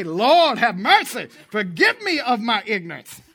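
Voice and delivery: loud pleading cry to the Lord; pleading prayer. Acted. Preacher crying out to the Lord for mercy. Preacher voicing a plea to God.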